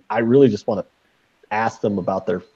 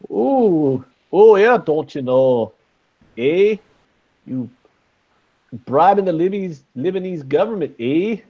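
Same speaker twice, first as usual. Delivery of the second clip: hammed-up Canadian accent, high, with drawn-out eh; mock Canadian, pitched up and stretched; over-the-top fake Canadian with "eh"; bad Canadian accent; 6 semitones higher than usual. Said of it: "Is that a bad Canadian accent?".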